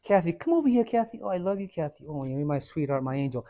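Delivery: mock doting parent. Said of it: "did your father or mother go".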